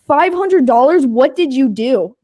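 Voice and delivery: mock cop in disbelief; shocked cop. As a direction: gasp out the number like a stunned cop.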